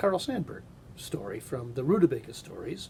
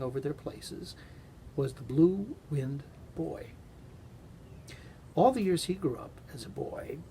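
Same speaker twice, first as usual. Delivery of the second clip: story narration. A narrator's reading. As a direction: read it like a bedtime tale. Reads a Carl Sandburg story aloud.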